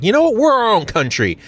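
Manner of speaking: high-pitched, loud patriotic outburst; mock defiance. Americans telling off the British, in high mock defiance. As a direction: declare independence in a hammed-up high voice.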